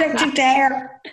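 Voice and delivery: very slow, laughing scolding; mock stern father. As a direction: stretch the warning out, half laughing. Repeats imagined father scolding.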